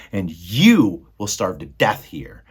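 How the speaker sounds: slow menacing whisper; threatening whisper. Acted. Rat threatening Meg in a slow whisper. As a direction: hiss the threat.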